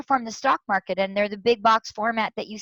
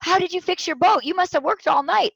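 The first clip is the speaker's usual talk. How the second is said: amazed question; 8 semitones higher, 4 dB louder than usual. Retold or imitated. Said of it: "somebody finally says".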